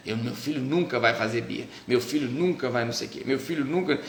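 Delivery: a hint of a smug know-it-all; mock the confident parent-to-be; smug vow. Childless person boasting their child will never throw tantrums, mildly mocking. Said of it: "tem umas frases de efeito".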